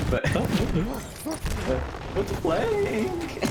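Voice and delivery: laughing through the words; breaking into laughter mid-line. Real, not acted. Laughing at own voice crack.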